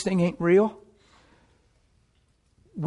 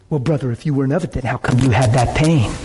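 cynical; 2 semitones lower than usual. Retold or imitated. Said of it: "Cynical, misunderstanding heart asking".

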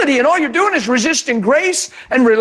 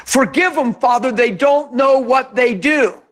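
gentle forgiving Jesus. Retold or imitated. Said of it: "That sounds a little different than".

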